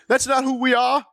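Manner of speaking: high-pitched mock protest. Host mimicking politicians who deny hating America, mock protest.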